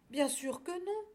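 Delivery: high little lamb voice, reassuring. A narrator's reading. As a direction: reassure a friend. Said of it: "assura l'agneau". (agneau rassurant)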